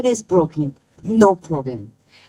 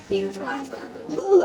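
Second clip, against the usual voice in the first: choked-up ooh; 7 semitones higher, 8 dB quieter than usual. Real, not acted. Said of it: "I lost my words".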